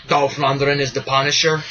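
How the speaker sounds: put-on a touch of Russian accent; hint of Russian-accented name announcement; slight Russian accent. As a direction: lightly imitate a Russian-accented action star. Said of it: "He's, like, Russian or something".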